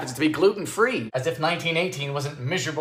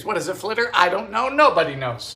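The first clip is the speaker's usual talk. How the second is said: normal talking voice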